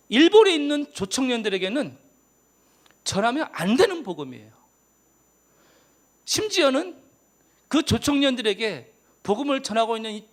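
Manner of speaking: preacher turning up his volume for the crowd. Real, not acted. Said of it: "제가 좀 목소리 좀 크게 할게요".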